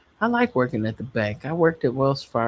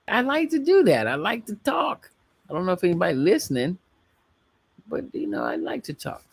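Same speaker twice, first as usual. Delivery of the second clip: playful high voice; 6 semitones higher, faster than usual. Acted.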